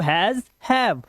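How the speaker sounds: has and have said slowly and clearly, one word at a time; has and have demo. Shown as a demonstration. Teacher demonstrates has and have to class. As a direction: spell out has and have by sound for students. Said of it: "ऐसे बोलते हैं, देखो".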